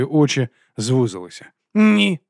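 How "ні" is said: high, loud cutting no; curt snap. A narrator's reading. Vons cutting Vimes short, high loud snap. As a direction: cut him off. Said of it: "відрізав він".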